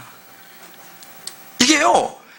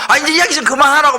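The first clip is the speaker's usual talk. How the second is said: mock annoyed; 4 semitones higher, 4 dB louder than usual. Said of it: "말하는 거예요".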